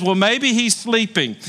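playful imitation of a prophet's jeer; mocking. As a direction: poke fun at rivals with a mild mock suggestion. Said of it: "he begins to mock them".

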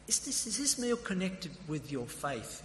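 high-pitched, tentative enquiry; careful probing question. Retold or imitated. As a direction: act out gently broaching a new topic. Acts out his last probing question.

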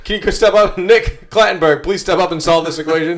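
high, loud mock teacher calling out. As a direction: summon the student to the board.

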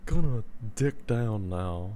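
pillow talk voice. Shown as a demonstration. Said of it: "pillow talk voice".

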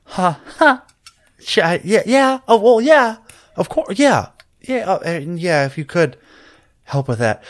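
high-pitched, halting and excited voice; eager, flustered character. Acted. Chatting to Mary about mom, high and flustered.

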